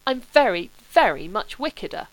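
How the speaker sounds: protesting he is wickeder, indignant. Acted. Sebastian protests to Charles, mildly indignant. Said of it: "said Sebastian indignantly".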